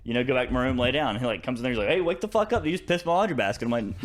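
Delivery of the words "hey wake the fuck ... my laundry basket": mock-angry accusation in a raised pitch; retold angry wake-up. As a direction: imitate an annoyed brother, pitched higher. Brother waking him angrily, retold.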